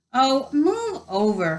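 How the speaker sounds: high, slow exasperation; snarled. A narrator's reading. Hermione pushes past at the locked door, snarling impatiently. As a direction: shove him aside with the voice, irritated. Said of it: "Hermione snarled".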